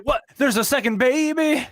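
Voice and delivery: high, surprised comic voice; squeaky high disbelief; a singer's voice. Retold or imitated. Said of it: "does the T-Pain voice".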